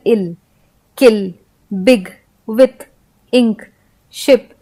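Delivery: "इल, किल, बिग, विथ, इंक, शिप" with short i. Shown as a demonstration. Teacher listing short-i examples, vowel kept short. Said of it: "छोटा उच्चारण होगा".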